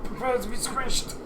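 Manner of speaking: menacing monster voice. Acted. Ogre threatens the party.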